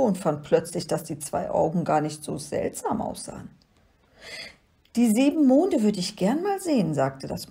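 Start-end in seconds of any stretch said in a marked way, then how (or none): 5.0-6.9 high, swooping little creature voice; kleines Monster. A narrator's reading. Little monster voice, wishing to see moons. (hohe, sehnsüchtige Monsterstimme)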